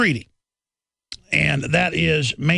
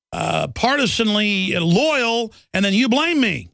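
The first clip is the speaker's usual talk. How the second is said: raised, exasperated complaint in a higher pitch; indignant senator; 5 semitones higher than usual. Retold or imitated. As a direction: keep up the wronged senator's indignation. Continues Dodd's outraged floor speech.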